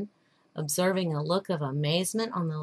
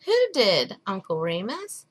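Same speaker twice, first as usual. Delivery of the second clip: put-on little boy asking. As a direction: ask like a curious little boy. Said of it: "asked the little boy".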